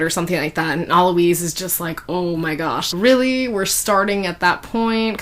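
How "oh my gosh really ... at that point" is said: incredulous, can't-believe-this groaning complaint; lightly acted eye-roll in the voice; eye-rolling disbelief. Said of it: "Kinda rolling his eyes".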